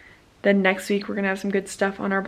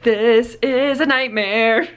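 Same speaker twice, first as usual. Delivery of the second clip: mock despair; 5 semitones higher, much slower than usual. Retold overwhelmed reaction to chaos.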